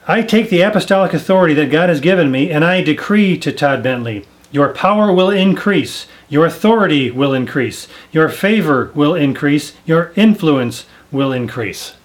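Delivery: quoting the apostle decreeing power over Todd Bentley; imitating a decree. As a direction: declare it like an apostle from the stage. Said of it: "He was declaring it".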